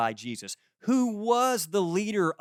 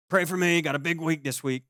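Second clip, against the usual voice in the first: joking way; 2 semitones higher than usual. Retold or imitated. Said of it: "they'll say it in a joking way".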